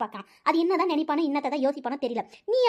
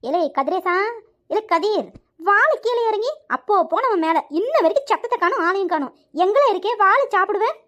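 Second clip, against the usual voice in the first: mildly raised calling voice; 3 semitones higher than usual. Acted. Mother calling Kadir down to eat, impatient calling out. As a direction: call to someone upstairs, a little impatient. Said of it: "எவ்வளவு நேரம் கத்துறேன் பாரு".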